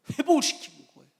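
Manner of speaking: loud, high ringing proclamation; emphatic declaration. Acted. Preacher booming the good news to the congregation. Preacher stresses restoration, then echoes.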